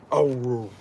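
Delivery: mock yawn sound; imitated dog yawn. Streamer mimicking her dog Archer's yawn, playful yawn noise. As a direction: voice a dog's yawn. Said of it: "That's what your yawns sound like".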